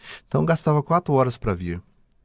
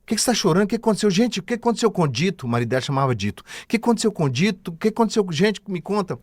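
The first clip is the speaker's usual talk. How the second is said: much higher, puzzled woman asking what happened; confused woman voice; 9 semitones higher, faster than usual. Retold or imitated. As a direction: play the woman waking bewildered. Revived woman confused asking questions. (mulher confusa, voz bem aguda)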